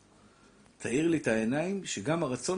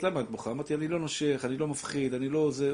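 reassuring. Retold or imitated. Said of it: "הרגעתי אותה קצת".

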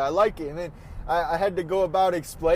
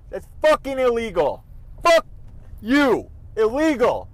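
angry swearing; 4 semitones higher, 5 dB louder than usual. Real, not acted. Car blocking the intersection.

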